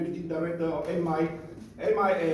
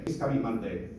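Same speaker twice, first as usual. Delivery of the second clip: laughing; 6 semitones lower, faster than usual. Real, not acted. Amused aside about award date.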